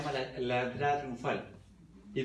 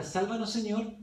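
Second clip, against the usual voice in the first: crowd's hopeful cry, higher in pitch; crowd shouting; 5 semitones higher than usual. Retold or imitated. Teacher voicing the crowd's cry to Jesus, a raised mock shout. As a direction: call out like the crowd praising. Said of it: "ese mismo pueblo que grita".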